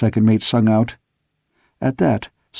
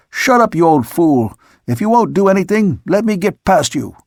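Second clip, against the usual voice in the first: angry bellow; 6 semitones higher than usual. A narrator's reading. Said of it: "I bellowed".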